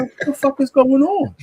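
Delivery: high, laughing outburst of disbelief; half-laughing yell of shock. Retold or imitated. Recalling a gay movie scene, laughing shocked yell. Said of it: "I said".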